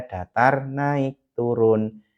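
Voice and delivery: "datar, naik, turun" drawn out as three tones; tiga nada. Shown as a demonstration. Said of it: "ini menggunakan tiga nada". ("datar, naik, turun" diucapkan panjang mengikuti nada)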